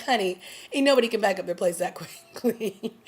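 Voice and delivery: sassy line broken by a laugh; amused sass with a laugh; laughing sassy quip. Retold or imitated. Laughing sassy quote about packing.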